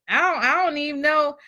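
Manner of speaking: a hammed-up tearful whimper, quick; mock sob while complaining about credit; mock crying. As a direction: play the weepy complainer, rushing. Mocking people who complain.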